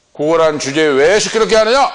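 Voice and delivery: mildly acted rebuke with a rising end; retold scolding. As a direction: scold like an indignant bystander. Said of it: "하고 호통을 치는데도". (호통치듯 끝을 올려 나무라는 말투)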